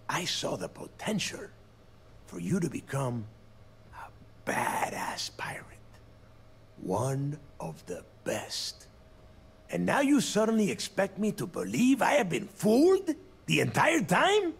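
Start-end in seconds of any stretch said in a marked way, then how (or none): 3.9-8.9 whisper. Acted. Villain whispering a taunt. 9.7-14.5 loud, high, outraged disbelief; incredulous shout. Acted. Angry disbelief at betrayal.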